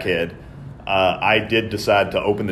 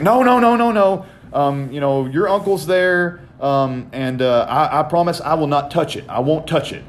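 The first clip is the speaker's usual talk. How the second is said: mock mom protesting; 7 semitones higher than usual. Imitating mom promising her son, high and pleading. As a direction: do mom, high and insistent that she won't.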